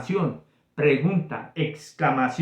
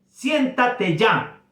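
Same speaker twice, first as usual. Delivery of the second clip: slow, firm order, pitched higher; command; 6 semitones higher, much slower than usual. Shown as a demonstration. Teacher acting out an order to a student, firm and slow. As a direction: tell the child to sit down now. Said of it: "Eso es una orden".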